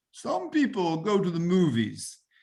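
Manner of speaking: put-on Brooklyn accent with swooping tune. Quoting a man's line from one of his tapes, imitating a Brooklyn accent. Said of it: "he said in his Brooklyn accent".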